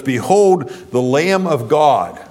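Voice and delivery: John the Baptist calling out, slow and solemn; proclaiming. Acted. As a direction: announce him to the crowd.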